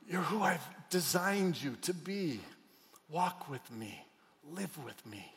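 whisper-close romance; tender proposal. Acted. God voiced proposing tenderly.

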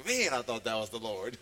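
low, put-on voice of a letdown congregant; mock disappointed listener. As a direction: imitate someone let down, pitched low. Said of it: "some of y'all are like".

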